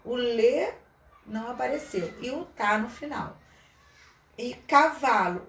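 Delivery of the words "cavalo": cavalo said slowly and louder; slow, loud model word; slow example word. Shown as a demonstration. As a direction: dictate cavalo slowly to the class. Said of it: "o C".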